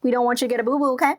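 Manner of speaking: high, sing-song teacher scolding; preschool teacher voice. Retold or imitated. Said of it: "the lady sounds like a preschool teacher".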